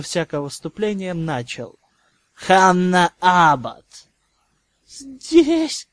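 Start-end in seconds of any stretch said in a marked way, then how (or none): 2.3-3.8 slow, loud cold roll call; stern roll call. Acted. Teacher calls roll. 4.9-5.9 high, frightened squeak; trembling voice. Acted. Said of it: "послышался дрожащий голос".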